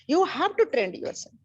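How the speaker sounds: slow, each word weighed; slow emphatic teaching. Real, not acted. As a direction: spell out the core teaching slowly. Guru stresses key teaching slowly. (धीमे और ज़ोर देकर सिखाते हुए)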